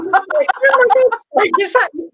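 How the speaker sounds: high-pitched, hammed-up disbelief; astonished. Tipsy friend addressing a talking bearded dragon, astonished. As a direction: act out amazement, pitch leaping right up.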